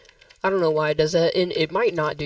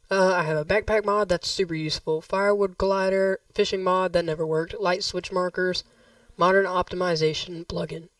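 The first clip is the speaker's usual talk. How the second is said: hoarse voice. Real, not acted. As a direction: voice giving out, hoarse. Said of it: "I'm kinda losing my voice".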